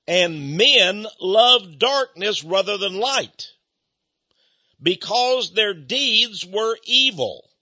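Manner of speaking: slow, measured Bible reading; scripture reading. Acted. Preacher reading verse nineteen to the congregation, slow and grave. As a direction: read the verse out slowly and gravely.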